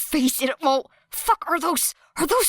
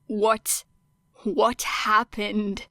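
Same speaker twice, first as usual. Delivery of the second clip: choked; 4 semitones lower, 3 dB quieter, much slower than usual. Acted. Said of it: "sounding much like he was choking on his words".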